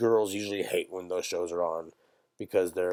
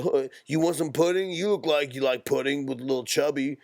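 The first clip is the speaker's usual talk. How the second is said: mock surfer bro; 5 semitones higher than usual. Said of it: "his friend be like".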